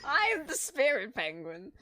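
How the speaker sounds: robotic announcer voice reading a message; old speech synthesizer. Acted. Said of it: "the voice was perfect for that".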